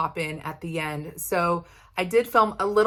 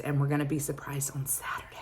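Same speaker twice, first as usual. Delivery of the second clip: whisper; 3 semitones lower, 6 dB quieter, faster than usual. Real, not acted. Teasing gender reveal secret.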